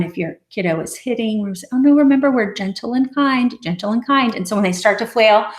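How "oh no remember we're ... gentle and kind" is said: put-on higher, sing-song reminder to a child; gentle reminder. Shown as a demonstration. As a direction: coax the child gently back. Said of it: "gentle and kind is a great one".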